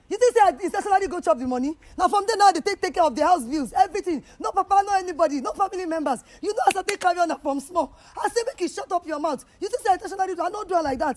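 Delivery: loud, high, fast angry retort; furious mother yelling at her daughter; angry shout. Real, not acted.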